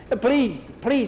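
put-on high, pleading boy's voice; desperate kid imploring; begging. Skeeter begs to ride.

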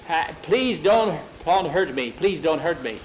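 frightened pleading. Acted. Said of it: "very frightened eyes".

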